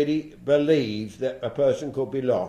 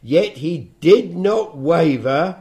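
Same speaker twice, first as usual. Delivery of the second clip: scripture reading; 4 dB louder than usual. Acted. Bible teacher reads verses on Abraham's faith to listeners, solemn scripture reading. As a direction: read the verses out deliberately, weighting key words.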